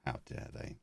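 whispered mock outrage; mock indignant whisper. Podcast host mocks the brands, whispered mock outrage. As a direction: hiss it as fake offence under your breath.

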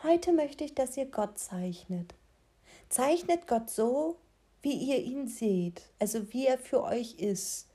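langsame, gedehnte Lehrerinnenstimme; leicht gespielte Religionslehrerin; Lehrerin. Retold or imitated. Lehrerin im Unterricht zitiert. (sanfte Lehrerstimme)

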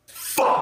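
unvoiced, drawn-out exasperated curse; retold curse. Friend sees the resemblance in her date, retold dismayed curse. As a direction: hiss out the curse in mock dismay. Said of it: "looks at him and goes".

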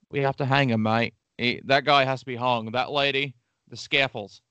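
a light, hammed-up Australian accent; a hint of Australian, done badly. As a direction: toss it off in a lazy mock Aussie twang. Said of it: "that became an Australian shithead".

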